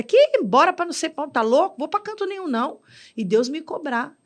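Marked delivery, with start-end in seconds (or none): 0.0-2.8 defiant retort. Retold or imitated. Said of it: "Eu já cheguei a falar pro profeta".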